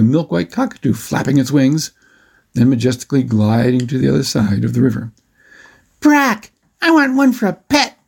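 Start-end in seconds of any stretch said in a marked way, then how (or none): 6.0-8.0 put-on high, excited boy's bellow; acted kid yelling to his brother. A narrator's reading. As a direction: holler your demand up high. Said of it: "Matt bellowed".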